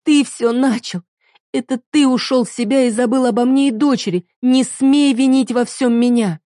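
wife screaming at husband; shouting accusation. Acted. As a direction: scream it as you tear free. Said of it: "закричала, вырываясь".

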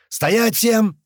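high, loud command; shouted halt order. A narrator's reading. Halting the crowd at the lift, shouting. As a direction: stop a whole crowd short.

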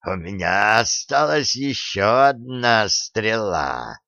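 slow hissing monster voice; hissing gurgling voice. Acted. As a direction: let the words hiss and gurgle, slowly. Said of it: "сказал шипящий, клокочущий голос".

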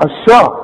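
الشاء with a dark, back A; wrong heavy shin. Shown as a demonstration. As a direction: thicken SHA in الشاء. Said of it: "وما تقولش بقى".

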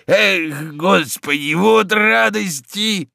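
lightly voiced old servant, overjoyed; a hint of a doting old manservant; the old servant congratulates his master, lightly voiced and overjoyed. Old servant Zakhar rejoices.

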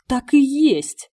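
high, loud, slow desperate cry; exclaiming. A narrator's reading. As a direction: cry it out in despair, stretching the words. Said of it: "воскликнул Бертрам".

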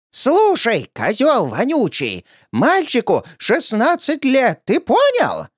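put-on old woman's threat. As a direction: spit the insult, drag out the threat.

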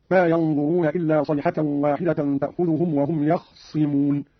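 يخصمون with a vowelless kh straight into doubled s: "yakh-ssimun"; iskan. Shown as a demonstration. Teacher demonstrates iskan, يخصمون as "yakh-ssimun". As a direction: slowly, stop the vowel after kh in يخصمون. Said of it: "الإسكان".

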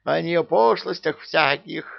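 a witch storming through her hut; бушует от ярости; raging. A narrator's reading. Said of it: "бушевала внутри избушки Яга".

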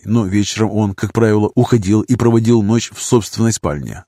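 usual speaking voice

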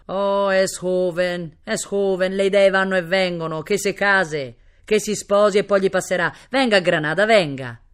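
loud, expansive nobleman's voice; indulgent Spanish prince. Acted. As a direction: wave the worry away grandly. Prince indulgently waves objection away. (principe spagnolo bonario)

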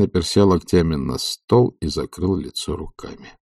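usual speaking voice

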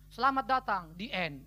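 "Selamat datang", then straight into a low "the end"; mock a film that ends instantly, dropping on "the end"; abrupt film ending. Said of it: "nggak ada ceritanya". ("Selamat datang" langsung disusul "the end" bernada rendah)

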